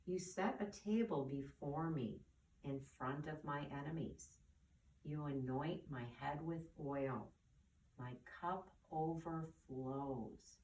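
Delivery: reverent reading, slowing at the end; calm, unhurried psalm reading; slow scripture reading. Acted. Teacher reads the next psalm line to children, slow and reverent. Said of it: "I'm going to read the next line".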